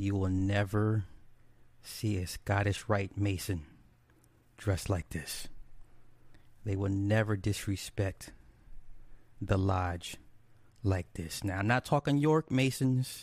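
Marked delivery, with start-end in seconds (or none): 0.0-5.5 very slow, halting, word by word. Speaker repeats the point once again: speaking real slow. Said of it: "let me say this real slow".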